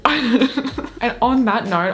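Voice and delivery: high, drawn-out words through laughter; laughing. Real, not acted. Turning to the sponsor after the goblin story, laughing. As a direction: laugh helplessly as you move on.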